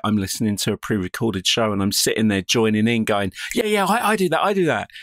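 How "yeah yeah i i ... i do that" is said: high, eager butting-in; eager interjection. Retold or imitated. Listener in the car talks back to the show, eager and high. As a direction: pipe up excitedly, much higher, as if joining the conversation. Re-enacts himself eagerly joining in.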